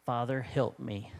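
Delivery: soft, slow, hushed plea; quiet prayer. Retold or imitated. Jesus leaning into the Father in temptation, soft and hushed. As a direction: breathe it out as a humble prayer. Jesus praying in retold scene.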